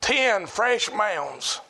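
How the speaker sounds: mournful slow words; slow grave. Real, not acted. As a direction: drag it out in grief. Slow grief over graves.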